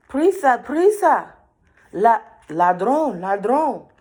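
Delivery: high, loud bird cries; alarmed birds. Acted. Birds urging the girl to hurry, high loud cries. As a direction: shout the alarm like frantic birds.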